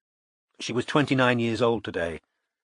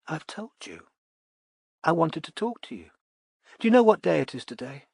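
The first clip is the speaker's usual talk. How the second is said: lightly voiced tipsy ex; 5 semitones higher than usual. Charlotte voiced by narrator.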